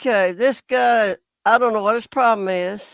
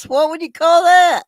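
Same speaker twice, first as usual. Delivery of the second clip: indignant; 5 semitones higher, 4 dB louder than usual. Real, not acted. Indignant rhetorical question to viewers.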